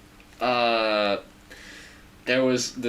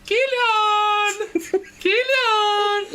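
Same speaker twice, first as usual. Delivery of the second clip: much higher sing-song imitation of mum's call; mock calling out; much slower than usual. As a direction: call the name like his mother does. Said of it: "he'd go, like".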